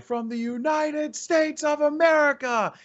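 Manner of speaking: very high, slow, stretched-out announcer call; arena announcer. Retold or imitated. Host introducing Cloud Nine to Boston crowd, drawn-out announcer call. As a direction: draw it out to whip up the crowd. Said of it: "And then I say".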